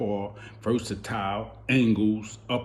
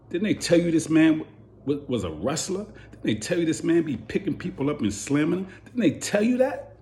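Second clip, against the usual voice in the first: climbing much higher with each question; incredulous, building; 7 semitones higher than usual. Real, not acted. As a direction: push each repeat up into disbelief. Incredulous at trainer's mistake.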